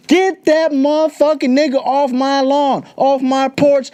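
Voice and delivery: mock racist parent. Racist Arkansas parents chasing a kid off the porch, mock yell. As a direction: play the bigoted parent chasing someone off the lawn, half mocking.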